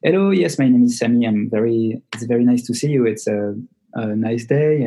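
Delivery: English in a fairly neutral accent; lightly French, neutralised English accent. Shown as a demonstration. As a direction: introduce yourself in plain, neutral-accented English. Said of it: "l'accent un peu neutre".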